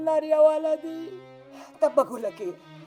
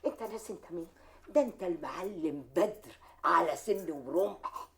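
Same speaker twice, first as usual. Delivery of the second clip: tender soothing; 5 semitones lower than usual. Acted. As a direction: hush him gently like a hurt child. Mother soothing her grieving son.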